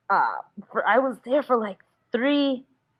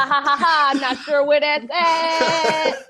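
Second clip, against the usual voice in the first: unbothered DJ; 6 semitones higher, 4 dB louder, slower than usual. Acted. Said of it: "It's the D J that doesn't wanna work at that station".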